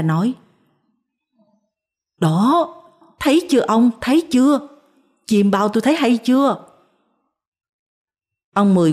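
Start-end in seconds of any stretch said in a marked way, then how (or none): 2.2-3.9 higher, eager told-you-so; wife crowing to her husband, higher and eager. Acted. Wife proves her dream right. 4.0-6.7 climbing even higher on "thấy chưa"; wife gloating over her husband, pitch climbing; triumphant. Acted. Wife proves her dream right.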